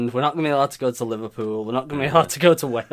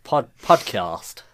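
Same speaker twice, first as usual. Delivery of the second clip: slow, lower mock southern accent; mock southern posh; 5 semitones lower, much slower than usual. Shown as a demonstration. Trying podcast as challenged, mock southern accent. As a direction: draw it out in southern radio voice. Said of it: "try and say podcast and add a Y in there".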